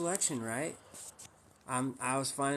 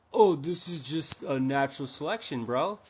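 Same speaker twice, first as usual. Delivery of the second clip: mocking a raw vegan, a bit louder; mock vegan excuse; 5 dB louder than usual. Streamer mocking the raw vegan in chat, mock voice. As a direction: parody his smug shrug-off.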